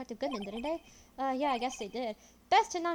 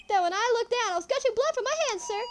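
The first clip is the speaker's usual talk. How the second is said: raised, dramatic junior officer voice; Officer Minkins; 8 semitones higher, 8 dB louder than usual. Acted. Officer recounting his bleeding hand, hammed-up eager lament.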